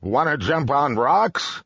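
high-pitched goat character voice; storybook goat. A narrator's reading. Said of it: "said the goat".

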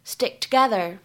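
"stick together" with the k in stick held, unreleased; loss of plosion. Shown as a demonstration. Teacher shows students "stick together" with the k unreleased. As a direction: run "stick together" together without popping the k. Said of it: "可以有一个失去爆破的处理".

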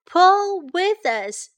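high, loud, drawn-out call; urging wife. A narrator's reading. Farmer's wife urging the dog to pull, high calling voice.

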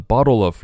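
"bottle of" run together as "bottle-uv"; linked words. Shown as a demonstration. Teacher showing learners the link in "bottle of". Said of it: "bottle of连起来".

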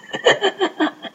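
high eerie cackle; evil cackle. Acted. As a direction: cackle like a mad doctor. Evil doctor laughs. (阴森的怪笑)

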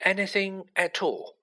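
high, gentle prompt. A narrator's reading. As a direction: offer it tenderly on a lifted pitch. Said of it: "he said gently".

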